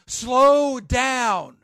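firm repeat. Real, not acted. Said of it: "repeated plea".

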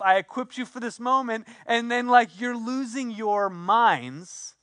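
acting out a put-upon telling-off; exasperated lecture. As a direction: lecture them like a let-down teacher. Imagined Jesus scolding the disciples.

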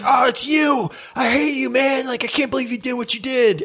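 a lightly voiced high, grumpy farmer; a hint of an angry old farmer. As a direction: scold like a peeved villager. Farmer quote in game story.

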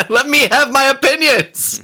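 high, drawn-out mock plea; mock protest. Teasing the co-host about opinions, mock protest. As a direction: plead in a hammed-up high voice. Mockingly pleading to be allowed opinions.

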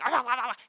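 imitated greedy gobbling; gobbling noise. Owner imitates dog eating forbidden cat food, gobbling noisily. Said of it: "he gobbles it up".

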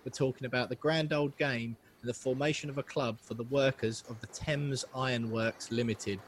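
put-on a slightly posh, formal recital of an old quote; posh formal reading. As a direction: read it out like a proper old speech, a touch posh. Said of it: "It was almost a little bit too posh".

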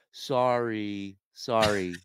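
loud, dismissive hollow sorry; fuck-you sorry. Retold or imitated. Agent brushing off the late traveler, loud hollow sorry. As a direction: apologize while clearly not caring. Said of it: "the most fuck you, sorry I've ever heard".

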